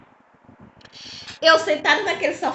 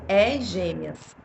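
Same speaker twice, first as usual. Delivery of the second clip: very slow, low announcing voice; mysterious voice; 5 semitones lower, much slower than usual. Retold or imitated. Repeating the voice that told her twins. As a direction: stretch each word like an unseen voice. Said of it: "falar assim".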